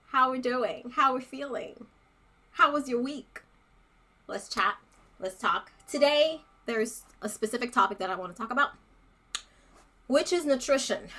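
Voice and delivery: breathless from running up stairs; out of breath. Real, not acted. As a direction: talk while catching your breath. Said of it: "I'm out of breath because I literally ran up the stairs".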